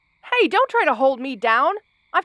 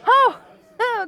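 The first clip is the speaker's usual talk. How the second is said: surprised; 9 semitones higher, 4 dB louder than usual. Acted. Startled by something in garden.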